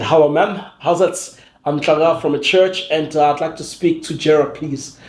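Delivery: imitating his put-on college accent, slightly lifted; lightly affected college-boy English accent; faked college accent. Visitor asking receptionist for the boss, faked college accent. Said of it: "let me put on my college accent".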